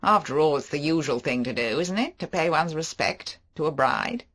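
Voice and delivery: flirtatious mocking banter; Favell. Favell voiced.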